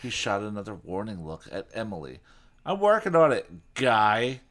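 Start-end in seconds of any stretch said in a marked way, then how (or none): 2.7-4.4 through clenched teeth. Acted. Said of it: "through clenched teeth".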